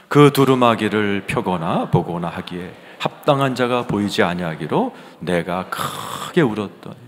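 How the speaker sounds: loud congregational Bible reading; scripture reading aloud. Acted. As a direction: lead the congregation through the verse. (힘 있게 성경 낭독)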